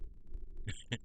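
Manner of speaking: soft, short chuckle; low-key laugh under the breath; brief voiceless chuckle; quiet chuckle. Real, not acted. Chuckles after remark on total control.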